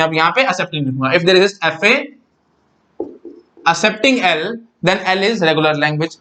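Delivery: very slow, word by word dictation; slow teacher dictating a theorem. Shown as a demonstration. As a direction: drag each word out for note-taking. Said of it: "अब मैं ऐसे बोलूंगा".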